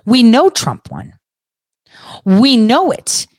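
a hint of a smug true believer; mock believer. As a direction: parody of a supporter insisting, lightly voiced. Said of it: "you speak like".

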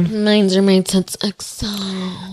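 slow playful whisper. Real, not acted. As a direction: whisper it teasingly.

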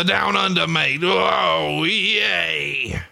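put-on high Down Under accent with long yells; mock Down Under accent. Co-host mimicking Bushwhackers from Down Under, mock Aussie whooping. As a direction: ham up a Down Under accent into a drawn-out holler.

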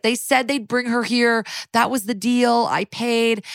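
mild mock distress; tearful. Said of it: "he starts crying".

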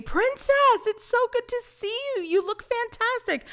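high sweet fairy godmother voice, well above her own; a fairy sweetly greeting a princess; Flora's voice. Retold or imitated. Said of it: "And she said to me".

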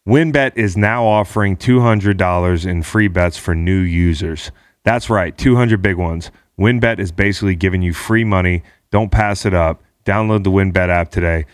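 upbeat sponsor read; punchy ad read; hyped betting ad. Acted. Host reads sponsor ad.

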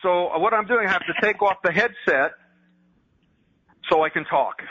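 halting speech, thrown by hearing yourself delayed; real halting delivery, fighting delayed feedback; distracted by echo. Real, not acted. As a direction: talk in broken chunks against your own echo. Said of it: "I'm getting the delayed feedback".

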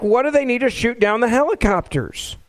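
retold question in a hint of fury; enraged demand. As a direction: push it up like an angry senator. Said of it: "He's, he's, he's enraged".

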